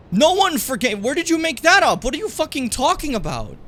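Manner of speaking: high, loud incredulous outburst; outraged disbelief. Real, not acted. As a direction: call out the absurd claim. Outraged reaction to Hogan.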